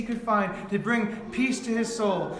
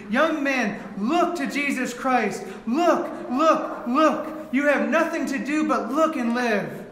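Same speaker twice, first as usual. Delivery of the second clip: preacher's shout; 3 semitones higher than usual. Retold or imitated. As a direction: call out to the young man like a fervent lay preacher. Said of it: "he shouted as only a primitive Methodist could do".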